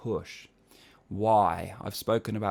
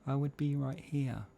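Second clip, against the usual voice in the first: light closure; 6 semitones higher than usual. Shown as a demonstration. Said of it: "if I give you a demonstration of light chord closure".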